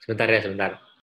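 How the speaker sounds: pausing for hiccups; real hiccups between words; hiccuping. Real, not acted. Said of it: "cegukan ini".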